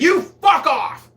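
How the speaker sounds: high, slow angry yell; mock angry yell. Snapping back at the masseuse, mock angry yell. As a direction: bark it back in mock outrage. Angry retort in massage story.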